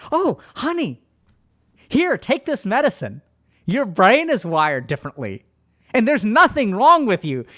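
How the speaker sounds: loud, bright-pitched overeager mom reassuring; manic reassurance. Retold or imitated. Mom manically reassuring her child about pills, loud and overeager.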